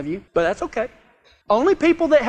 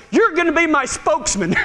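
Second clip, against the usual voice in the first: God speaking; 5 semitones higher than usual. Acted. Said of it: "And God said".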